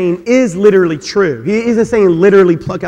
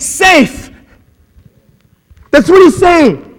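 raised, urgent preaching; full-force preaching; 6 semitones higher, 5 dB louder than usual. Real, not acted. Pastor warning men away from temptation, raised and urgent. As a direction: drive it home from the pulpit.

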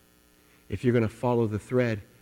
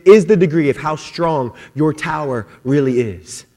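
raised, driving preacher's voice; preaching; 6 semitones higher, 7 dB louder than usual. Acted. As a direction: build the sermon with rising conviction. Building sermon intensity.

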